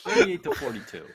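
thirty-eight to forty-two jumped way up high; high mock repeat. Repeating his age-range guess to the hosts, high and teasing. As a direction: squeak the guess back teasingly.

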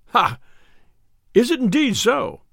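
keen, rising-pitched curiosity; high-pitched, eager exclamation; eager cry. A narrator's reading. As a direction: seize eagerly on the promise of news. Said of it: "cried the tinker eagerly".

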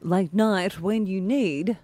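slow, measured news anchor read; newsreader voice. Acted. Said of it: "puts on her very best newsreader voice".

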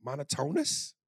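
Monotonous asked as "mono-TONE-us?"; questioning Monotonous, with "tone" in the middle and a rise; unsure pronunciation. Shown as a demonstration. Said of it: "I don't even know that I'm pronouncing it right".

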